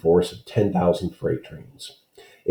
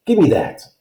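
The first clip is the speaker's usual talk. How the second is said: higher, pushy demand; a hint of a menacing stranger; 11 semitones higher, 3 dB louder than usual. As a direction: grab for the bottle with your voice. Man demands the water bottle.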